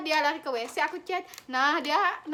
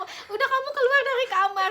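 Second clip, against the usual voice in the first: higher, louder order to get out; mock bossy order; 8 semitones higher, 6 dB louder than usual. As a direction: send her off like a drama mother. Imitates friend ordering her out.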